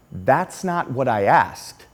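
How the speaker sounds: slow, deliberate word by word; pointed teacher correction. Retold or imitated. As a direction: imitate a teacher setting a kid straight.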